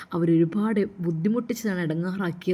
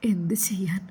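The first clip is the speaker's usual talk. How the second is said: 1 whispered sigh; 4 dB quieter than usual. Acted. Heartbroken girl's inner lament.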